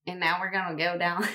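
lightly put-on Southern accent. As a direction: try easing into a Southern accent. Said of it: "Bentley gets me into it".

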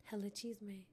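talking around a mouthful of ice. Real, not acted. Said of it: "I have ice in my mouth".

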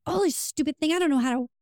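lightly mocking a partner who pretends to be frustrated; mock frustration. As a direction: play the fake-helpless partner with a light whine. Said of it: "they'll act like they're frustrated".

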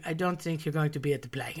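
put-on doctor's line in a German accent. German doctor telling a child she'll miss the play, German accent. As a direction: imitate the German doctor, matter-of-fact. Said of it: "very thick German accent".

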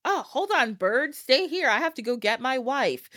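excited goldsmith. Retold or imitated. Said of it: "the goldsmith's".

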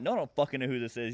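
retold annoyed phone retort; angry. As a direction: curse back at the caller. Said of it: "I was just angry as fuck".

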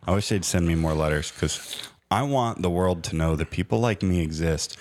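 usual speaking voice

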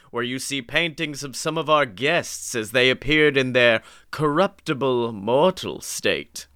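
slow spooky ghost host; lightly voiced eerie tour guide; slow theatrical villain menace. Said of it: "I'll take ghost host".

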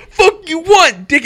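high, loud mock yell at his buddy; retold screaming. Drunk friend yelling at him at a red light, loud mock shout. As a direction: bark it out like a drunk picking a fight. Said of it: "And he's screaming at me".

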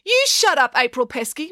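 very high indignant comeback; high-pitched childish squabbling; sharp retort. A narrator's reading. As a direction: throw it straight back at a rival. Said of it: "retorted Matilda".

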